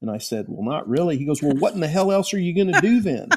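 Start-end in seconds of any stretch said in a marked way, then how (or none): 1.2-3.3 put-on broad, thick Oklahoma accent, laid on heavy, high. Act out the man answering your 'not really' as he talks you out of it, real thick Oklahoma accent. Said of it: "He's got this real thick Oklahoma accent".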